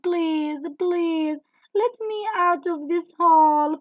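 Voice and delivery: high, begging calls with sighs; a sorry horse begging for help, sighing; pleading horse. Acted. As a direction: plead and apologise from the hole. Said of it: "He kept shouting and shouting".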